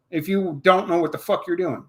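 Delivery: ordinary talk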